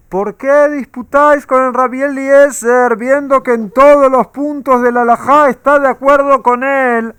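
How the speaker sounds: high, loud booming voice from heaven; loud, high divine proclamation echoing down; heavenly voice. Acted. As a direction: proclaim it like a voice from the sky. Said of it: "se escuchó una voz celestial que decía".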